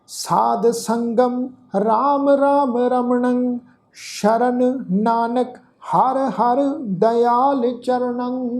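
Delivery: slow, measured chanting of a sacred verse; scripture recitation. Acted. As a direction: recite each phrase slowly with long pauses. Teacher recites the shloka.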